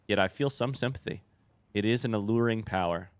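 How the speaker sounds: measured, solemn game narration; lore reading. Acted. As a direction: read the lore like a storybook narrator. Reads in-game lore text.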